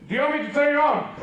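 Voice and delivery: mock-childhood shout from the tap; calling out. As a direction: call across the yard with a question. Calls to brother from the tap.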